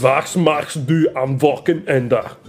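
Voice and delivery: very slow, over-careful German; slow German question. Retold or imitated. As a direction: spell it out for the class. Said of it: "He'd come in and be like".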